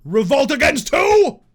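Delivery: loud, slow outraged question; mock indignant shout. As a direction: challenge them loudly. Mocks rebels as king.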